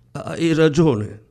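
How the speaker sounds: high, very slow, halting through a sob; stammered sob. A narrator's reading. Woman sobbing over her dead lover, stammering. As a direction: choke the words out while crying. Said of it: "balbettò in un singhiozzo".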